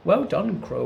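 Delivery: high, loud cheer; cheering the parrot on from the capstan; whooping. A narrator's reading. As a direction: whoop it out in delight. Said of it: "whooped Fernando".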